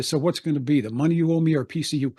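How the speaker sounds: fast, rushed tough-guy threat; mild tough guy menace, rushed. Retold or imitated. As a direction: spit it out quick with a knife up. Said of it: "I did the switchblade right in his face".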